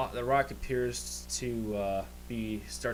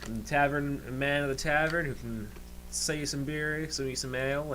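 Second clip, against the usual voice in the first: lightly voiced Irish barkeep, a little lifted; Irish tavern keeper; 3 semitones higher than usual. Tavern keeper greets new faces at the bar, light Irish accent. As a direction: welcome newcomers with a hint of Irish. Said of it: "the Irish".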